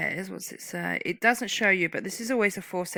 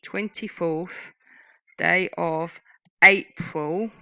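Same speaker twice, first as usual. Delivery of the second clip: slow longhand dictation; 6 dB louder, much slower than usual. Shown as a demonstration. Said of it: "some would write in longhand twenty-fourth here".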